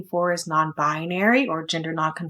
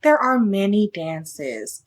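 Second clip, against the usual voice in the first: gently; slower than usual. Acted. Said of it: "auntie said gently".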